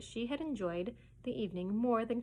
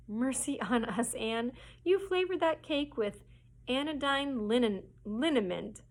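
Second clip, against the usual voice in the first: higher, louder, slow dismay; exclamation of alarm; 4 semitones higher, 4 dB louder than usual. Acted. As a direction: cry out as the truth dawns. Marilla discovers the liniment.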